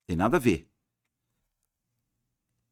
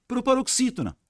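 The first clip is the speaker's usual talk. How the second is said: proparoxítona leaps much higher; high emphasis; 13 semitones higher than usual. Shown as a demonstration. Teacher stressing the key term.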